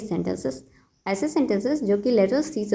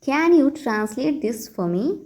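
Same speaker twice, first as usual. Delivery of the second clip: very slow, teacherly model phrase; slow model sentence; 3 semitones higher, much slower than usual. Shown as a demonstration. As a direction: spell it out slowly for learners. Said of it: "तो इस बात को आप कहिए". (बहुत धीमे, सिखाने वाले अंदाज़ में)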